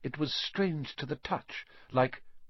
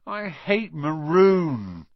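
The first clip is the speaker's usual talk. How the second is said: very slow, louder, higher mock whine; halfhearted sulky moan; half-hearted moan; 6 semitones higher, 7 dB louder, much slower than usual. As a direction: drag out the grumble without real heat. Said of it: "Ron moaned half-heartedly".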